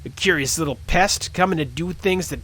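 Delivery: mock orc voice. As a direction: sneer at the little pest. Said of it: "I hate this voice".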